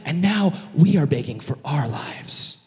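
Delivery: acted pleading fading toward a whisper; breath-heavy mock despair; grave lament. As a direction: let the line sink into hushed dread. Simeon laments their punishment.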